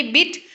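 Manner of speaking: बिट with a short, quick i; short vowel. Shown as a demonstration. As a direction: keep बिट brief. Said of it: "यहाँ पे short sound है". (बिट छोटी आवाज़ में)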